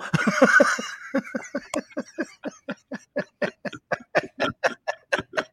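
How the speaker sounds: hohes, hauchiges Kichern; Lachanfall. Real, not acted. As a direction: losprusten vor Lachen. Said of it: "muss ich selber lachen". (hoher hauchiger Lachanfall)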